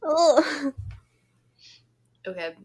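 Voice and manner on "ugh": higher, brief "ugh" of distaste; disgusted groan. Real, not acted. Co-host recoiling from the word dongle, disgusted groan. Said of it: "I hate that word".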